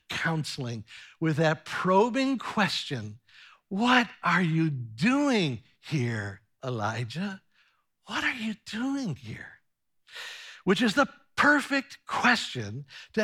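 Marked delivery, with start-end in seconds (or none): 3.7-7.4 gentle probing question. Acted. God's probing question, slow and gentle. 8.1-9.6 soft repeat. Acted. Repeated question, dropped soft.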